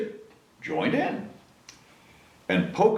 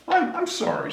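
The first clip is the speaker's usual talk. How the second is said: high, stammering apologetic wolf; a sheepish high stammer; sorry wolf. A narrator's reading. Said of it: "said the wolf".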